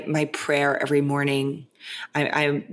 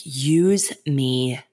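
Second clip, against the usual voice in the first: slow breathy whisper of a prayer. Shown as a demonstration. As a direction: whisper "use me" slowly like a private prayer.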